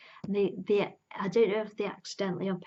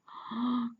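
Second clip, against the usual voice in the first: scared gasp; 4 semitones higher than usual. Retold or imitated.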